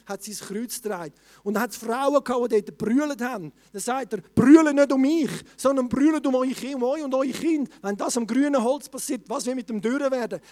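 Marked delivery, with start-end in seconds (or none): 4.3-10.4 booming voice of Jesus warning the women; loud preached quote. Acted. Jesus calling out to the weeping women, booming. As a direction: preach it at full force, as Jesus.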